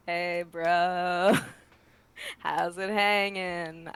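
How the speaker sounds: lightly done surfer bro; a hint of a laid-back surfer; surfer dude voice. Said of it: "He's gotta talk like a surfer".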